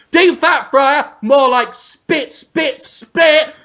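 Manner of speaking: mock chef disgust. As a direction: spit each word out in mock anger. Acting Ramsay spitting in fryer.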